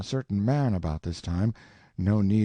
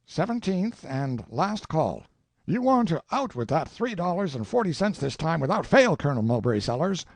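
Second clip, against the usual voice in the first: curt; 8 semitones higher than usual. Acted. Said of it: "with the curt remark".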